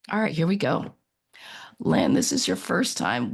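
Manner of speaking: hoarse from a cold; croaky, sore-throated voice. Real, not acted. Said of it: "Welcome to my croaky voice".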